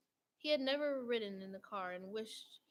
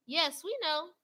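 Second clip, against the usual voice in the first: high, loud group shout; shouted back; 7 semitones higher, 10 dB louder, slower than usual. A narrator's reading. Donuts shouting back to the baker, loud and high. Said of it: "the donuts shouted back".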